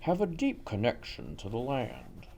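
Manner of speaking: put-on old newsreel narrator voice; lightly voiced vintage documentary narrator; 1950s documentary voice. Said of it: "Is that your nineteen fifties, uh, documentary voice?".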